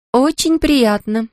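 languid drawl. A narrator's reading. Kerensa greets handsome Tarni, languidly drawling. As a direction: stretch it out, flirting lazily. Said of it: "томно протянула Керенса".

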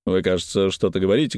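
ordinary delivery, nothing marked

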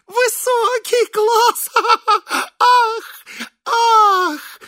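very high, slow, laughing cry; laughing delight. A narrator's reading. Man delighted by sparrows, laughing very high. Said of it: "заливаясь смехом".

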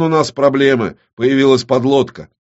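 громкий тревожный вызов по рации, выше; кричит в рацию, паникуя; тревожный крик. Acted. (громкий тревожный крик в рацию)

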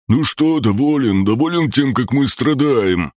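bare your teeth and taunt him; the green mokosh snarls at the hero; snarling taunt. A narrator's reading. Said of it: "оскалился зелёный".

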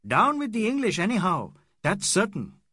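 high, loud raging tirade; in an awful rage; angry cry. Acted. Aziz raging at the English, high and loud. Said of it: "and cried".

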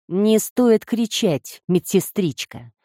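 slow, calm Irish brogue; a calm gangster's Irish accent. Acted. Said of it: "спокойно произнёс высокий, с резким ирландским акцентом".

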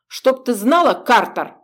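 loud, lofty parting jab; haughty. Acted. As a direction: toss it off arrogantly. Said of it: "высокомерно бросил он".

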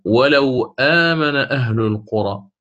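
slow chanted Quran recitation; Quranic recitation. Shown as a demonstration. Teacher reciting a Quran verse to students in chanted recitation. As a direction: recite the verse in tajweed style. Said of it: "مثاله".

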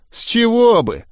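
high, exaggerated parroting; mocking mimicry. A narrator's reading. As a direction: parrot the question back in mockery. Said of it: "передразнил Гоблин". (передразнивая, высоким голосом)

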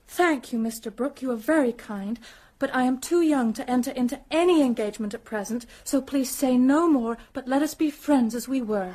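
cool, composed refusal; rehearsed, stiffly calm and firm; calm and decided. Pretend. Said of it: "quite calmly and decidedly".

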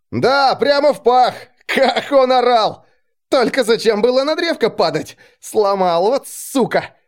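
high, loud rowdy soldier glee. Acted. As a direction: crow about it like a rough soldier. Soldiers laughing about the fight.

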